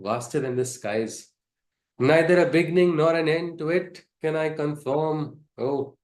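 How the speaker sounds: measured scripture reading; verse translation reading. Acted. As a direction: read it like sacred poetry. Poetic verse translation read.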